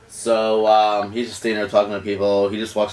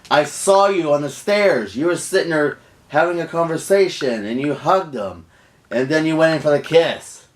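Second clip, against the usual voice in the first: retold accusation; 5 semitones higher than usual. Retold accusation after seeing a kiss.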